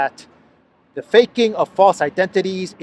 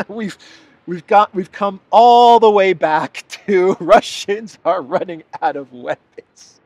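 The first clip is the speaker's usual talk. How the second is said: laughing disbelief; 3 semitones higher, 5 dB louder than usual. Real, not acted.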